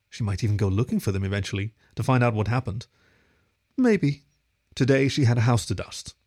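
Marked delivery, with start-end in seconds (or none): 3.8-4.2 a high, hopeful "Maybe" on its own; lifted wistful maybe. A narrator's reading. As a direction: float the word up, then let it fall. Lone wistful maybe, raised.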